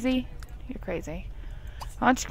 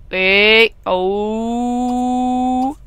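much louder "wait"; sudden loud "wait"; 3 semitones higher, 6 dB louder than usual. Real, not acted. Stopping the sim from leaving, a sudden loud call. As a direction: call out to stop it. Calling out.

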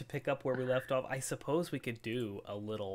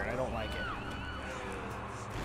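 very high slow squeak; mock fear; 6 dB quieter, much slower than usual. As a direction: squeal it in playful fright. Monster somewhere, wants to hide.

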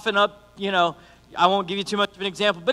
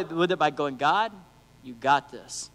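calm trusting; 4 semitones lower, 4 dB quieter, slower than usual. Shown as a demonstration. Contrasting calm faith response.

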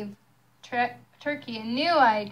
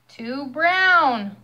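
mild squawk; 3 semitones higher, 6 dB louder than usual. Acted. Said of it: "squawked Rooster".

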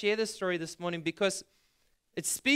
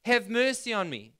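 mock shout, higher and a little louder; raised-voice call for mercy, acted lightly; 4 semitones higher, 4 dB louder than usual. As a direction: retell a beggar crying out. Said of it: "he shouts out and he cries out".

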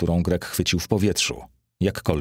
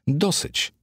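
high, rising cry of enough; sharp high enough; 12 semitones higher than usual. A narrator's reading. Petronius cuts off the boasting Greek, high rising cry. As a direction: leap up in pitch to shut him up. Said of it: "zawołał Petroniusz".

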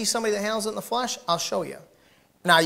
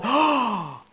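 rising to a shout, higher and louder, slow; hammed-up church crowd outrage; mock outraged gossip; 6 semitones higher, 13 dB louder, much slower than usual. Crowd gasps and condemns the offender, mock shouting. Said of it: "everybody's going".

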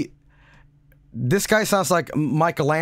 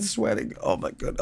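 whispered; 7 dB quieter than usual. Real, not acted. Worn out from laughing.

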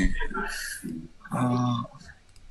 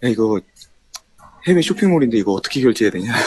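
imitating older brother; 2 semitones lower than usual. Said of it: "약간 이런 느낌이거든요".

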